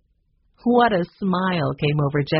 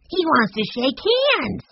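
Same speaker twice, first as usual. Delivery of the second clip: put-on higher, slow, thrilled little boy; delighted cry; 9 semitones higher, slower than usual. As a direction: exclaim it with pure delight. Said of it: "cried Benny, delighted".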